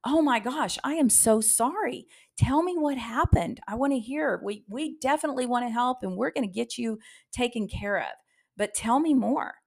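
caring receptionist comforting a grandmother in pain; empathetic. Shown as a demonstration. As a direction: sound truly sorry and eager to help. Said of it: "How would you respond?".

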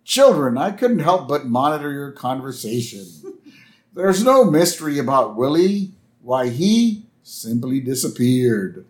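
lightly voiced school principal; a touch of stiff official address; measured, mildly acted lecture to pupils; Principal Skinner. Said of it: "Principal Skinner walks up".

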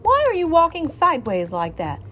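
scolding. Acted. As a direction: tell the child off. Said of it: "she scolded".

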